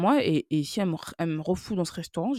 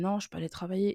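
meek, small, quiet voice; 5 dB quieter than usual. Retelling answering a doctor on a video call: speaking in a small voice. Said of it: "je parle avec une petite voix".

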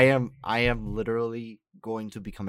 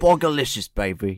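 put-on British accent, much louder; 5 dB louder than usual. A podcast host introduces the show, doing an Austin Powers impression. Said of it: "I can be British".

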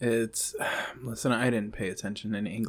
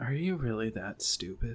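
rude, taunting, needling voice; 5 dB quieter than usual. Voicing a voice heard in a player's head: voicing Marianne. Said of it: "This is Marianne".

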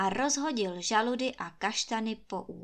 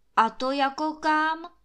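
daring, emboldened tone, pitch raised; 6 semitones higher, 6 dB louder than usual. Kuba answers Trautenberg's orders with a question, plucking up courage. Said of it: "Osmělil se Kuba".

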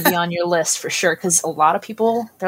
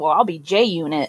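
put-on sarcastic tone. Retelling an old remark about a gamer name: imitating own past sarcastic remark. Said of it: "So I was being sarcastic".

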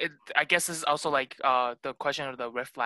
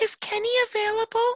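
very high-pitched put-on girl's voice. Quoting someone's question about kenny, in a put-on girl's voice. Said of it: "I don't know why I said it in a girl's voice".

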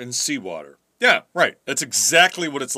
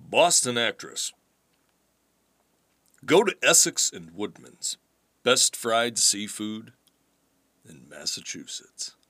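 slow radio announcer voice, ad-read style; 6 semitones lower, 5 dB quieter than usual. Showing they can still do a radio voice, radio announcer voice. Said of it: "I can still do radio voice".

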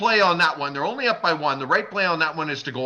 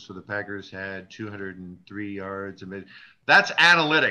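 very quiet, low, flat, droning monotone; 8 semitones lower than usual. Podcast host mocking how other podcasts read analytics, in a flat monotone. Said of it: "you get the monotone".

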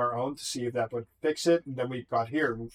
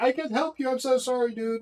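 play-acted shrill, very high scream; 12 semitones higher than usual. Retelling what Fudge screamed during the game: imitating Fudge screaming. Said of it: "Fudge was screaming like".

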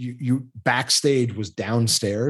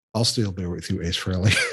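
mock flat delivery, lower, faster; 4 semitones lower than usual. Telling a story about Ace Frehley finding beer, imitating Tom's deadpan. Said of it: "deadpan was just like".

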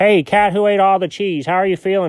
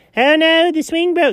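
voice pitched very high; 10 semitones higher than usual. Telling a story, speaker mimics the listener reacting, imitating the listener's voice. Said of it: "So you're doing it again".

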